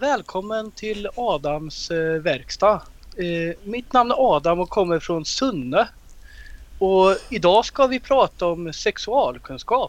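Swedish Värmland accent. Asked to let the others hear it, imitating Värmland dialect. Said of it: "jag vill tro att jag är ganska bra på att imitera värmländska".

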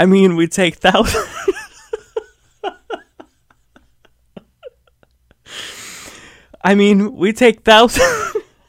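cracking up, high swooping laughter through the words. Recording a video, the speaker breaks up at their own joke, laughing while talking. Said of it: "I'm literally crying".

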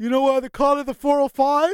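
acted-out smug, douchey manner. Retelling a remark someone once made, imitating a douchey tone. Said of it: "saying this in the douchiest of ways".

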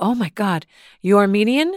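put-on Armenian accent in a woman's voice. Retelling what an older woman in a shop asked: armenian accent. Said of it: "try to do an Armenian accent".

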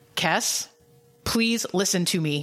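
scariest, very stern and commanding voice. Retelling how the captain is called in to talk to Kes; imitating Janeway's scary commanding voice. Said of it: "In like the scariest voice".

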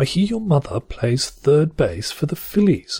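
posh accent, high-pitched. Reading a study participant's example line in a posh accent. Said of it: "I'm going to read it in a posh accent".

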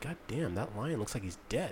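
very hushed, barely audible under-breath mutter. Recalling what one said while looking at a lion, muttering under one's breath. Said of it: "I said underneath my breath".

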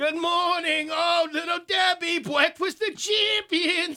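very high, very loud speech-impediment voice. Retelling what a woman used to say to her, imitating a speech impediment. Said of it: "she had a bit of a speech impediment".

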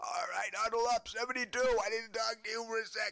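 very high, scratchy, hoarse coach voice. Retelling a football coach talking to his defense: imitating a hoarse voice. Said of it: "his voice, like I said, from shouting at these guys, is hoarse".

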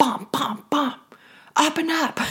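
urgent police voice. Showing how fear sounds: terrifying policeman at the door. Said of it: "Fear is always gonna sound like a policeman at the door".

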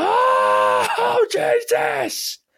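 put-on very high, pained scream of agony. Retelling falling down in public, re-enacting screaming at the top of one's voice. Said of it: "started screaming at the top of my voice".

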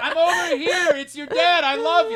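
playful, very high, loud dad voice yelling out. Imagining a dad calling out to his kid, imitating a dad yelling out. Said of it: "as he's like yelling".

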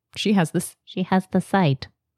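slow, strange, small, odd-sounding voice. Describing a character reacting to some drawings, in Isaac's weird little voice. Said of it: "in his weird little voice".

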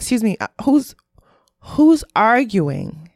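polite woman's voice, "who's arguing" drawn out slowly. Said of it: "my best white woman voice".

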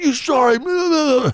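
very high, heated yell. Retelling yelling at a fight opponent while being held back: retelling a yell. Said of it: "I'm yelling at City Green".

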